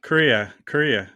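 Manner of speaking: "Korea" run together as KREE-uh; corrected acronym pronunciation. Shown as a demonstration. Co-host trying out the correction, "Korea" said as KREE-uh. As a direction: practise "Korea" as KREE-uh, falling each time. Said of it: "It's not South or North Korea".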